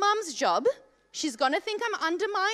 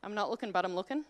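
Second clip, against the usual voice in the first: sneaky pretend; 8 semitones lower, 7 dB quieter, much faster than usual. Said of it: "subtly trying to be like".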